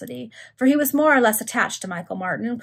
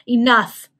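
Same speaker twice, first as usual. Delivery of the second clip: loud exclamation, a little raised; sharp cry; 2 semitones higher, 10 dB louder than usual. A narrator's reading. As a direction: cry out to cut someone off. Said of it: "cried Tomlinson".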